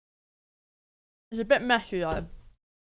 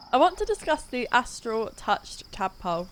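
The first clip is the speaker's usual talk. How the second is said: talking through a mouthful of chocolate; words muffled by chocolate; mouth full; 2 semitones higher than usual. Real, not acted. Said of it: "I've got chocolate in my mouth".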